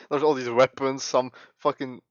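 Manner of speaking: shouting and cackling in disbelief; loud laughing rant. Real, not acted. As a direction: yell it through laughter. Gamer streamer ranting, laughing.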